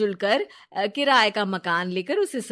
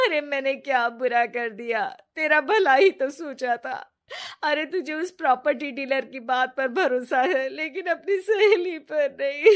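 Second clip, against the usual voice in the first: crying; 5 semitones higher than usual. Acted. Ritu sobbing to Riya to win her back, tearful and high. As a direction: plead through sobs, voice rising. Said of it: "जोर-जोर से रोने लगती है".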